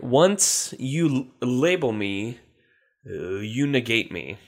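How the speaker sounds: words drawn out slowly; slow, deliberate reading. Shown as a demonstration. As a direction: read it slowly and carefully. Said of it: "can you please use that in a sentence?".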